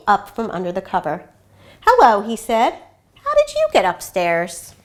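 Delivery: gentle read-aloud storytelling voice; story narration. A narrator's reading. Reads picture book aloud.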